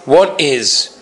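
slow, drawn-out sneer of a cruel officer; taunting a condemned prisoner, slow and mocking. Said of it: "the officer said in a mocking tone".

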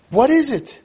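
high, pleading what is it; exasperated pleading parent. Retold or imitated. Parents pleading with their angry kid, high exasperated plea.

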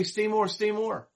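drawn-out begging to stay; a playful hint of a pushy host; mock pleading host. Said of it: "then you're gonna say".

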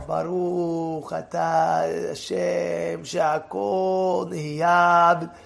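very slow, every word weighted; beracha with kavanah. Shown as a demonstration. Rabbi shows the class a beracha said with full intent. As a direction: draw out each word of Baruch atah Hashem shehakol nihiyah with intent. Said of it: "Then already you have kavanah".

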